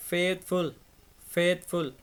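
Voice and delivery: फेथफुल with फेथ and फुल clearly separated; two distinct parts. Shown as a demonstration. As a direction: say फेथफुल twice, part by part, pausing between takes. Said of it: "फुल दूसरा है".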